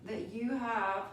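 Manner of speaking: talking with hair in the mouth; words caught on a strand of hair. Real, not acted. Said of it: "sorry, I have hair in my mouth".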